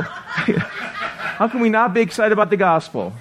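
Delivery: laughing. Real, not acted. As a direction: laugh through the punchline question. Laughs about ShamWow guy.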